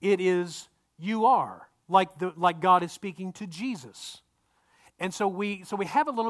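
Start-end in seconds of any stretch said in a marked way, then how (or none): 1.0-1.7 "You are" punched as the contrast; emphatic "You are", falling at the end; stress on "You are". Shown as a demonstration. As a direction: land firmly on "You are". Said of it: "when Mark tells the story, it is".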